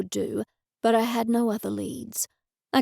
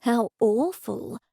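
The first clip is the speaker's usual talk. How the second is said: slow, hushed conspiratorial aside; slower than usual. Acted. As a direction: draw her into a shared secret, slowly. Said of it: "I said in a conspiratorial tone".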